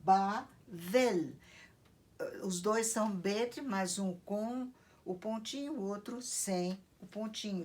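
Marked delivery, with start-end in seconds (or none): 0.0-1.3 Bavel said firmly, a clear V sound for the Bet; Hebrew Bavel with V. Shown as a demonstration. Teacher to class, naming the Hebrew Babel, clear V pronunciation. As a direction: spell out Bavel with a V, not a B. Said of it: "você tem o som".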